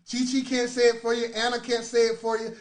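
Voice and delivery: ordinary talk, nothing marked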